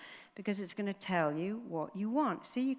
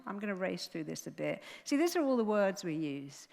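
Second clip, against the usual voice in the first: ordinary talk, nothing marked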